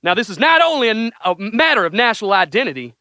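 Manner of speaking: reading a Trump speech in a put-on presidential accent; hammed-up Trump impression, grand and earnest; mock Trump accent. Reading Trump's space speech to the guys, in mock Trump accent. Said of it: "Did he say it in that accent?".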